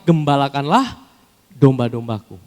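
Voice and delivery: loud, ringing command; proclaimed command. Acted. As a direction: call it out to the crowd. (perintah yang diserukan dengan keras)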